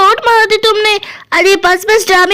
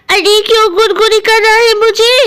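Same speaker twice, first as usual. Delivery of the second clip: lightly voiced Pakodi; 3 semitones higher than usual. Pakodi complains to Guddu for tickling her, mildly annoyed. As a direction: lightly protest at being tickled awake.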